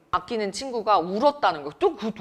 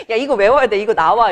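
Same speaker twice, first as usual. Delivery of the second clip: loud laughing warning; 9 dB louder than usual. Retold or imitated. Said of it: "이랬는데".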